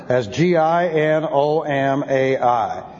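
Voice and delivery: G I N O M A I spelled slowly, letter by letter. Shown as a demonstration. Teacher to his class, spelling the Greek slowly letter by letter. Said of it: "and it means to occur".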